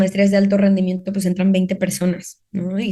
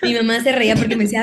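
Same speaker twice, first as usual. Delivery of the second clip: laughing; much faster than usual. Real, not acted. Laughing while telling.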